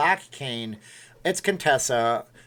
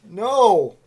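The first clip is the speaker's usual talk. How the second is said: dramatic no; 7 semitones higher, 8 dB louder than usual. Pretend. Dramatic cry.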